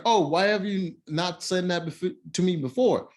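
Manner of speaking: a touch of offended anger; retold annoyance. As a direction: imitate her indignant demand, mildly. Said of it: "pissed off".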